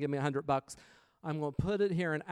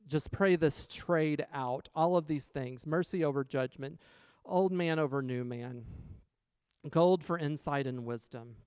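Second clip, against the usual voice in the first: prayer; 3 semitones lower than usual. Acted. Closing prayer declaration.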